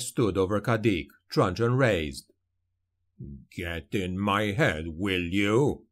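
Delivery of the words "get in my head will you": understated roar. A narrator's reading. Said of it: "he roared".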